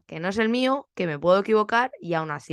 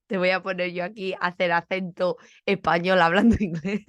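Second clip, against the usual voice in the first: amused, breaking into a laugh; entre risas. Retold or imitated. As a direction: laugh near the end of the line. Se ríe de su propia ocurrencia. (diciéndolo con risa)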